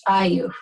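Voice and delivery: "chayu" with a popped CH, then a tiny break; "chayu" opened by an ejective ch. Shown as a demonstration. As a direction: pop the first sound of "chayu". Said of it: "so pop that out".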